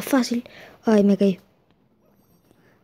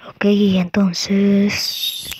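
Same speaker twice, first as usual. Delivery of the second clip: whispering; 3 semitones lower, much slower than usual. Real, not acted. Suddenly whispering mid-game.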